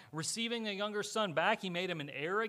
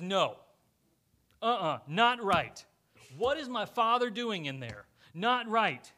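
indignant; 6 dB louder than usual. Acted. Older son refuses, indignant.

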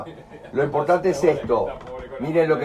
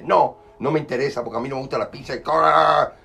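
loud mock outburst as the boyfriend; imitated indignant yell, building; angry refusal; 3 semitones higher, 4 dB louder than usual. Acted boyfriend angrily refusing his date.

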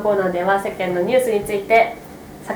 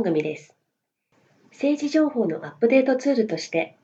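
announcer voice. Acted. Formal program opening read.

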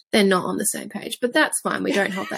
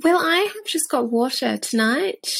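posh accent; 3 semitones higher than usual. Shown as a demonstration. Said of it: "I said that very posh".

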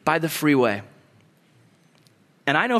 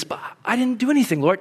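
high, quick objection; puzzled protest; 7 semitones higher, faster than usual. Acted. Believer objecting to God's gift, high and quick. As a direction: protest your unworthiness in a raised pitch.

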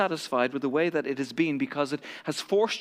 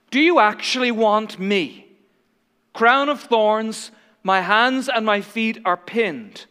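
pleading Jesus; 3 semitones higher, 5 dB louder, slower than usual. Acted.

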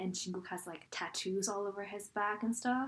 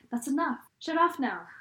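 rattled off in one breath, louder; fast, no breaks; 5 semitones higher, 4 dB louder than usual. Retold or imitated. Friend imitating Jason rushing his line, all run together. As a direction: run the words together with no gaps. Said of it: "he said it so fast, like, with no breaks".

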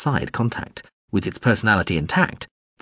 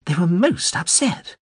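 professor sighing; 10 semitones higher, slower than usual. A narrator's reading. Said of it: "the professor sighed".

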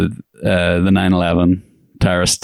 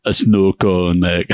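shouted punchline, mate on the end; mock shout; slower than usual. Podcaster yelling a silly movie line at his cohost.

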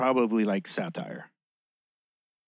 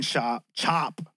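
lisping on the s sounds. Real, not acted. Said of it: "Excuse the lisp".

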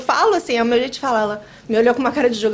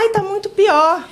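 slow, whiny, higher; mock complaint; 7 semitones higher, 3 dB louder, slower than usual. Imitating people who moan that today is worse, slow whine. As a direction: whine it out slowly.

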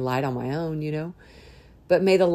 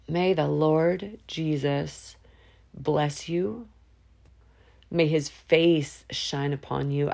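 spoken blessing; slower than usual. Real, not acted.

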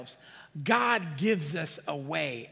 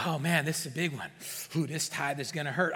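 quick, lower-pitched mock groaning complaint; mock reluctance; 4 semitones lower than usual. Reluctant giver facing a big tithe, mock dreading. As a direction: grumble as if bracing for pain, exaggerated. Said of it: "I don't even talk like that".

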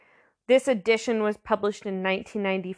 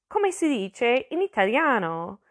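careful learner's Italian accent; best Italian accent; 3 semitones higher than usual. Shown as a demonstration. Teacher reading a section title to the class, best Italian accent. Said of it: "I'm gonna do my best".

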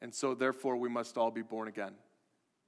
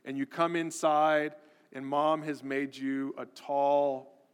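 usual speaking voice

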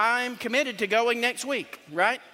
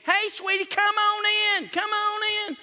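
put-on sweet old Southern lady; 13 semitones higher, 4 dB louder than usual. Pastor voicing the old daughter inviting him in. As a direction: draw it out like a kind grandmother. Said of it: "that's how she talked".

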